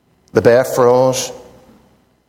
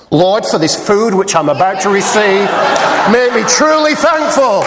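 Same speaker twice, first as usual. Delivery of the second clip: bear praying; 4 semitones higher than usual. Acted. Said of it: "bowed its head".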